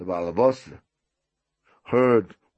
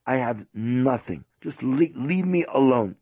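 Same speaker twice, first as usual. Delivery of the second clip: exasperated guest; 4 semitones higher, 4 dB louder than usual. Retold or imitated. Guest refuses and wants leaving alone.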